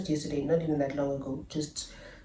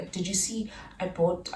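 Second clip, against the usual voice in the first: whispered, slower sweet-talk; a quiet whisper, the lady buttering her up; 5 dB quieter than usual. Retold or imitated. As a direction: coax her softly in a whisper. Lady trying to be nice.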